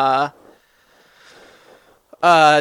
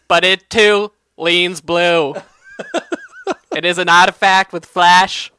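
pompous senator. Pretend. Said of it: "act like a senator and read a magic card".

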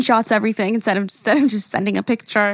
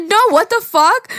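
mock outburst; 9 semitones higher, 5 dB louder than usual. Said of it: "I said".

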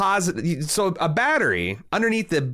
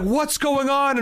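high-pitched mock alarm; retold alarm; 12 semitones higher, slower than usual. Teacher demanding answers from screaming boys, mock alarm.

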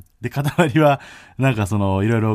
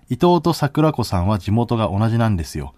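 article read; 3 dB louder than usual. Shown as a demonstration. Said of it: "抜粋した部分読んでいいですか".

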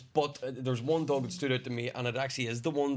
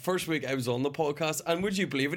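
lightly put-on Irish accent, laughing at the end; a hint of Irish lilt in a friendly brag. Irish accent, a podcast mate performing on request. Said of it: "give us a name in your best Irish accent".

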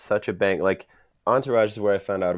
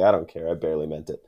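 understated, dropping lower at the end; matter-of-fact; 3 semitones lower than usual. Retold or imitated. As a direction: lightly imitate an unbothered, matter-of-fact reply. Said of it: "he's so matter of fact".

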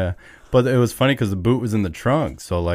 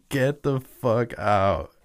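mock scream; 4 semitones higher, much slower than usual. Friends finding a toe in a boot, mock screaming. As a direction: stretch each word as a restrained mock yell. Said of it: "we start screaming".

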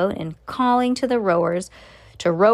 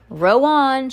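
louder, higher call to the rowers; lightly raised shout; storybook shout; 5 semitones higher, 5 dB louder than usual. A narrator's reading. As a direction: call it out like a boat captain. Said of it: "shouted Mister Wonka".

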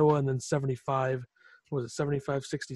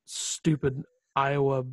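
salty; much slower than usual. Real, not acted. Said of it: "I sound really salty here".

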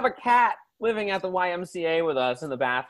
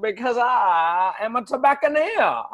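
put-on Virginia southern accent. Overalled southerner explaining his tobacco roots, Virginia accent. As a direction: boast in a broad Virginia accent. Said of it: "I come from down in the Virginia".

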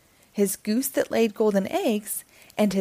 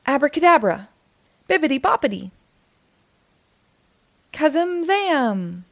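magic words; 7 semitones higher, 4 dB louder than usual. Acted. Jack casting spells at beans.

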